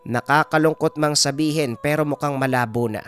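grandmother's firm, regretful verdict; Lola Bilay, grave healer. Acted. Healer says the baby is likely lost, grave and resolute. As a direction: break bad news firmly, as the village healer. Healer delivers bad news.

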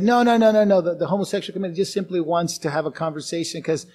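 imitated waving-off; dismissive objection. Acting out supporters' dismissive reply.

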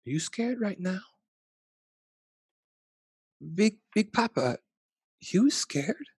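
put-on high little kid asking; a small child worried for grandpa. Grandchild asks Big Papa if he's scared, high childlike voice.

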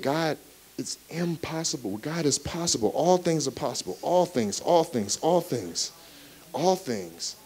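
quiet preaching. Acted. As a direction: drop to a near hush. Quiet scripture reflection.

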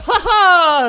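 kova, korkea naurahdus; voitonriemuinen nauru. Real, not acted. Voitonriemu vastustajan kuollessa. (vahingoniloinen, kova nauru)

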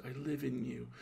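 a lightly voiced lovesick murmur. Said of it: "she murmured".

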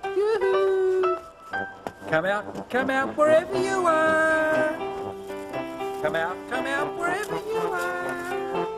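long, drawn-out sing-song call; searching call. Acted. Lion looking for his new friend, calling out.

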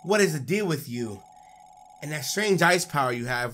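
lightly voiced, bickering villains; a hint of scornful villain voices; game characters arguing. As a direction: read it as squabbling rivals. Voicing game characters' dialogue.

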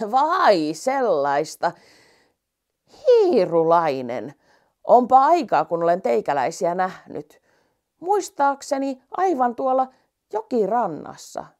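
put-on slow, musing old giraffe; drawn out, recalling. Giraffe voiced in the story. (kirahvin mietteliäs ääni)

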